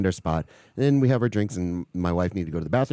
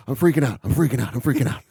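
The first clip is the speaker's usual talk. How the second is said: acted panic; 4 semitones higher, 3 dB louder, faster than usual. Acts his panic to buddy.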